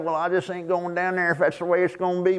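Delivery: grumbling, sulky mimic; lightly voiced sulk; sour churchgoer. Preacher mocking a sour church member, sulky. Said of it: "they're sour on about it".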